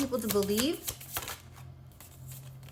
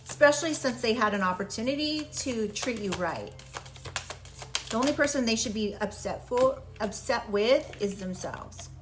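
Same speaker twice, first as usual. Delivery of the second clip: wearing a retainer. Real, not acted. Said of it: "I have my retainers in today, and I am having a hard time talking".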